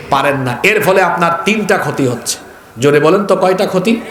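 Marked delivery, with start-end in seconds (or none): 2.8-4.0 calling out. Real, not acted. Preacher calls out to crowd.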